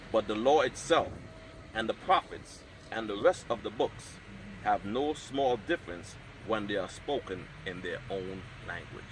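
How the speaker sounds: measured, solemn reading of scripture. Acted. Reads scripture prologue aloud.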